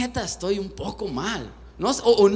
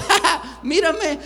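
mock self-laugh; 7 semitones higher, slower than usual. Mocks himself next to suited people.

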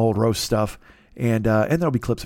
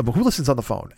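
ordinary delivery

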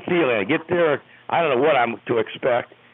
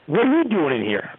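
higher-pitched, mildly gruff challenge; imitating a curt, mean rebuff; 4 semitones higher than usual. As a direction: demand it like an unwelcoming boss. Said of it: "meanly, so to speak".

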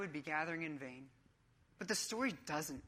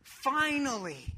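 loud, high, drawn-out "Finally"; exuberant, slow-stretched shout; excitement boiling over; 7 semitones higher, 7 dB louder, slower than usual. Acted. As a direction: let it burst out like a coach at game time. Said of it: "hear the excitement boil over".

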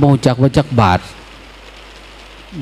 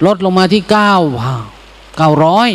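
auctioneer; 4 semitones higher than usual. Retold or imitated. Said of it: "ตามหลักการประมูล".

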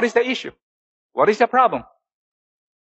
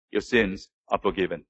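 solemn pronouncement; 9 semitones lower, 8 dB quieter than usual. Acted. Jesus pronounces forgiveness, quiet.

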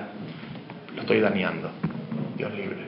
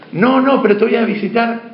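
much higher, louder insisting friend; hammed-up friend barging in, loud and high; pushy friend shouting; 9 semitones higher, 5 dB louder than usual. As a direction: override the refusal, high and loud.

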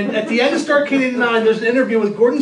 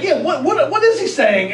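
laughing confusion; 5 semitones higher than usual. Retold or imitated. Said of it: "So we're like".

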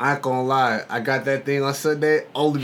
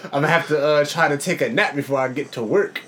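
tired morning voice; exhausted; 5 semitones higher, 6 dB louder than usual. Real, not acted. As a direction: drag it out like someone exhausted. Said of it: "I am exhausted".

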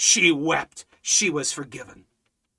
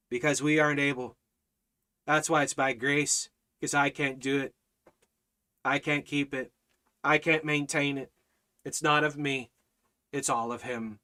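hushed preaching; 4 semitones lower, 7 dB quieter than usual. Acted. Drops to a hushed, intimate preaching.

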